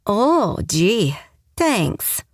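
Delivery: dry, sarcastic mutter of thanks; mock gratitude, eye-roll in voice. A narrator's reading. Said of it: "I muttered sarcastically".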